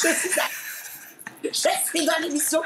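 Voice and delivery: high-pitched hysterical squeal; retold hysteria. Shrieking at home that she is on the show, retold hysteria. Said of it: "je pars en hystérie chez moi".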